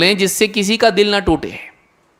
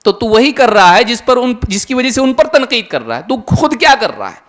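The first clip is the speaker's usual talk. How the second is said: higher, pressing challenge to an imagined critic; mock confrontation; 4 semitones higher than usual. Preacher rebuking someone who criticizes scholars, mock confrontation. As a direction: argue back, pitched up and insistent.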